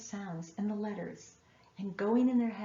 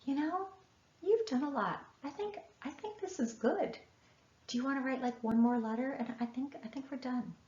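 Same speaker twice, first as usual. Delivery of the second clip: gentle encouragement; 4 semitones higher than usual. Retold or imitated. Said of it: "perfectly okay to say".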